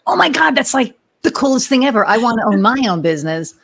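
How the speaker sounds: high, gushing retold nurse; star-struck nurse voice. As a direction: gush like an excited young nurse. Nurse gushing about owning business.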